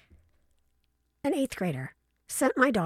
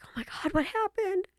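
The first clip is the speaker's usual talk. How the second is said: shocked whisper; 10 semitones higher than usual. Retold or imitated. Mother reacts to shocking photo.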